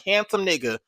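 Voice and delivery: loud, high repeated uh-uh and no; disbelieving protest. Retold or imitated. Watching the fight eleven times, loud denial. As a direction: refuse it loudly, over and over. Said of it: "I was just like".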